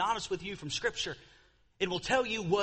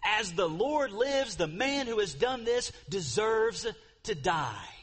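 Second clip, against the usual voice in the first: raised, slowed, indignant outburst; angry; 6 semitones higher, 4 dB louder, slower than usual. Retold or imitated. David to Nathan about the rich man, indignant raised voice. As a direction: let the king's outrage rise. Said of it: "David's anger was greatly kindled".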